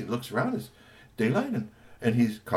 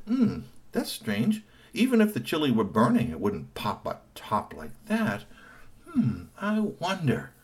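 puzzled detective; 4 semitones higher than usual. Acted. Cornelius puzzling over pot.

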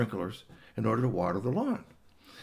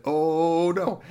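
frightened; 6 semitones higher, 8 dB louder than usual. Acted. Cat sees big dog.

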